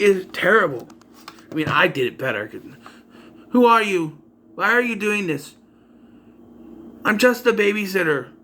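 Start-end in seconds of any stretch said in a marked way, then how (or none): 3.5-8.3 higher, unvaried line reading; monotone acting. Babysitter questioning her phone stalker, monotone. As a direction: recite it like a poor actress, every line alike. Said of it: "It's very monotone".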